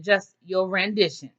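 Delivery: slow, drawn-out "rendition"; pointedly unimpressed. Retold or imitated. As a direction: repeat it slowly, imitating withheld praise. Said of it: "nothing positive in that description".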